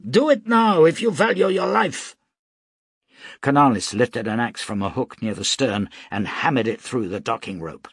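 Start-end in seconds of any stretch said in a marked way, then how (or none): 0.0-2.2 high, loud urgent bellow; bellowed threat. A narrator's reading. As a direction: roar it as a threat. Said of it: "bellowed Nu".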